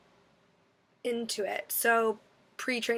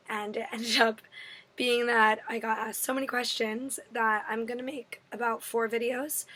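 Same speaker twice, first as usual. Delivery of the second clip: losing her voice, raspy and strained; hoarse voice. Real, not acted. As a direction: talk through a sore, worn-out throat. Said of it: "Sorry, my voice is gone from this past week".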